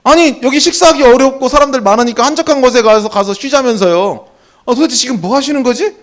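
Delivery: a touch of exasperation; angry complaint. Acted. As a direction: act out an annoyed disciple grumbling. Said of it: "되게 화가 났을 것 같아요".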